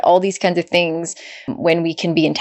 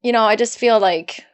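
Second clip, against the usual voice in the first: higher voice, choking up a little; fighting back tears mid-sentence; getting emotional; 4 semitones higher than usual. Real, not acted. Host moved by guest's story, voice catching with emotion. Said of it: "you made me emotional".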